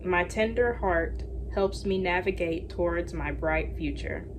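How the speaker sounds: slow, gentle reading of an affirmation. Acted. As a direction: read it like a calm mantra. Reads affirmations.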